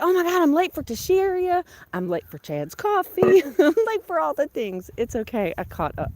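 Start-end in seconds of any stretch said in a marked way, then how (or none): 0.0-4.9 louder, higher hurried fluster, laughing at the end; mock panic. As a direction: play your own frantic morning rush for laughs. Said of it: "And I was like".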